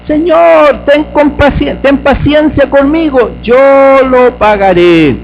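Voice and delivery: high, pleading plea for patience; pleading servant. Acted. Servant on his knees begging his lord, high and pleading. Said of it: "le suplicaba diciendo".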